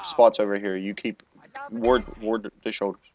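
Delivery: tripping over the words; stammering, repeating words; stuttering. Real, not acted. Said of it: "God, I'm stuttering so bad".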